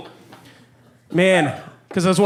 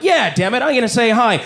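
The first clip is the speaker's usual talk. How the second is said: higher, psyched-up self-talk; resolved self-talk; 4 semitones higher than usual. Retold or imitated. Shy guy deciding to greet a girl, psyched up. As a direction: work up mock courage. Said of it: "I'd be like".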